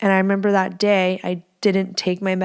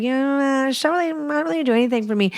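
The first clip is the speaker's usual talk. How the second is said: mock dismissive client; 6 semitones higher than usual. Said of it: "be like".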